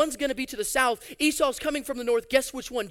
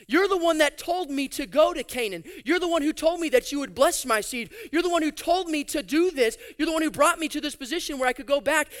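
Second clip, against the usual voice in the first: pleading Jacob; 5 semitones higher than usual. Acted. Jacob crying out to God for rescue, pleading. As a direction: beg God to keep his word. Jacob's prayer voiced by preacher.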